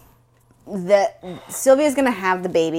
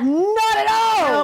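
sarcastic; 12 semitones higher, much slower than usual. Acted. Mock innocent echo.

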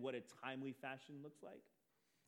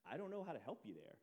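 calm retort; 4 dB quieter than usual. Retold or imitated. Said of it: "I was still calm".

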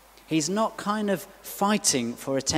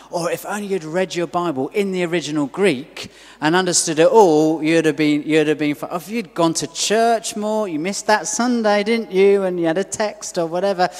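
sarcastic finger-wagging that swells to an accusing jab; mock scolding; 2 semitones higher, 6 dB louder than usual. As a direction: scold the congregation in jest, rising as you go. Mocking the false message of God.

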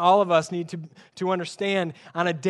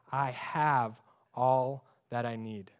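slow, softer, lower reading; slow reverent reading; 6 semitones lower, 6 dB quieter, slower than usual. Shown as a demonstration. Preacher reads the verse to the congregation, slow and soft. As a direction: savour each word slowly and softly. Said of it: "N L T says".

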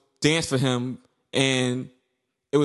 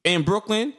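mock disbelief; 4 semitones higher than usual. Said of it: "I'm like".

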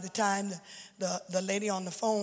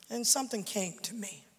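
hushed; 5 dB quieter than usual. Real, not acted. Sermon, quiet revelation.

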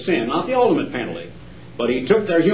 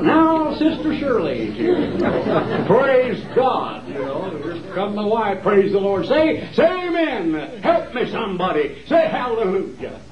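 mock TV preacher; 2 semitones higher, slower than usual. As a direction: ham up a showy TV preacher calling for amens. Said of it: "like these other guys".

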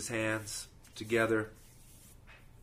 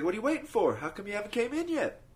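raised, higher gentle questioning; Jesus voice; 10 semitones higher, faster than usual. Acted. Jesus asks the man from Crete why he waits, raised and higher. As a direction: ask like a puzzled Jesus at heaven's gate. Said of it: "He's like".

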